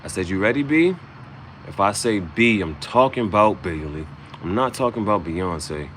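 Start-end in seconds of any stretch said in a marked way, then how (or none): 0.3-0.9 calling the dog. Retold or imitated. Calling his dog Bailey.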